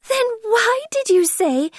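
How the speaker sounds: put-on an offended little girl scolding; angrily. Alice scolding the Hatter, high and indignant. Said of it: "Alice said angrily".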